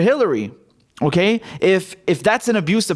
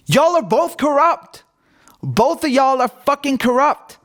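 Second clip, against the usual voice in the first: much higher and slow, fed-up yell; exasperated outburst; 7 semitones higher, slower than usual. Real, not acted. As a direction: throw both hands up and call them all corrupt. Exasperated outburst at both parties.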